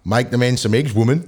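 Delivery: half-successful Australian accent. Shown as a demonstration. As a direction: try a light Aussie accent. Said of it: "Australian, go".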